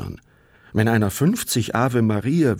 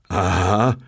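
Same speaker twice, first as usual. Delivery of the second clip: calling out. A narrator's reading. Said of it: "rief Bartle".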